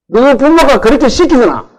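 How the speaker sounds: the village elder's Gyeongsang dialect rebuke; Gyeongsang dialect scold. Retold or imitated. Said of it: "경상도 말로". (경상도 사투리로 꾸짖듯이)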